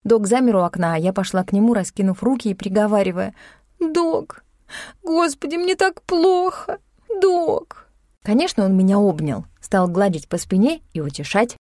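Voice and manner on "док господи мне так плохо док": crying. A narrator's reading. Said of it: "отвернулась и заплакала".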